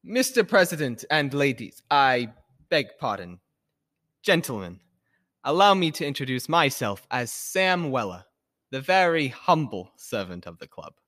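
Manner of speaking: charming, courteous address; engaging manner. Acted. Laurie introducing himself to the club, engaging. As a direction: win them over politely. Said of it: "in the most engaging manner".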